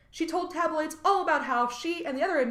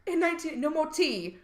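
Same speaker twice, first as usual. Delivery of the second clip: lightly voiced British lament; mock British accent; 3 semitones higher than usual. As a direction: put on a mild fake British accent. Mock British prison punishment, first take.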